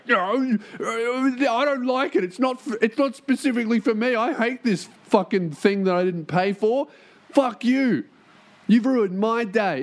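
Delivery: high, whining, petulant complainer; whiny hater voice. Retold or imitated. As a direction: sneer like an entitled hater. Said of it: "those people are always like".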